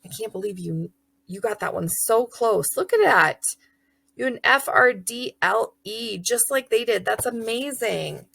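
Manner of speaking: lightly encouraging; mild teacher praise. Retold or imitated. Teacher praising a child's spelling, encouraging. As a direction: cheer the kid on gently. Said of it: "Ooh, friendly is".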